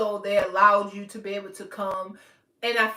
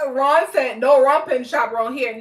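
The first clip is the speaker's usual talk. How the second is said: laughing; 3 semitones higher, 8 dB louder than usual. Real, not acted.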